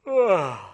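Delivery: a lightly acted sleepy yawn; a small hammed-up yawn; mock yawn. Storyteller acting out Mister Lazy's yawn, mildly mocked. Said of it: "Yawned again".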